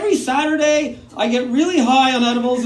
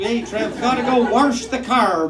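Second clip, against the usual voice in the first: rural parent voice; 3 semitones lower than usual. Retold or imitated. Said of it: "my parents talk like extras from Letterkenny".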